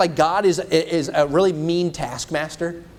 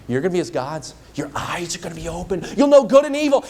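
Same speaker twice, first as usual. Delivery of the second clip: appealing promise; 2 semitones higher, faster than usual. Acted. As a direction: sell the promise with rising thrill. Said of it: "even the way he phrases it, it sounds appealing".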